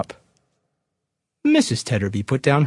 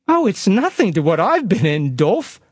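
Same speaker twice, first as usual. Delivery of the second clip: burst of grief; 6 semitones higher than usual. A narrator's reading. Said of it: "cried his wife in a great burst of grief".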